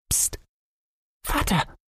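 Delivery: put-on hushed secretive child voice. Boy hiding under the boat hushing his father, secretive. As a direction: hush him like sharing a secret. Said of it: "machte Thomas geheimnisvoll".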